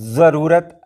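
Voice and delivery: ज़रूरत with a heavy emphatic dh-like first sound; ज़रूरत said the laughable Arabic way, thick first consonant; Arabic-style zwad. Shown as a demonstration. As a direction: overdo the Arabic dad at the start of ज़रूरत. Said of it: "ऐसा कहेंगे? लोगों को हंसी आ जाएगी".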